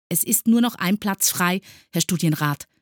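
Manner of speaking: high, loud, dutiful report; pupil reporting. A narrator's reading. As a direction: report up eagerly like a model pupil. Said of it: "meldete er". (eifrig meldender Schüler)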